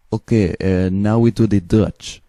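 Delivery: lightly put-on Eastern European accent. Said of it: "I take Eastern European accent".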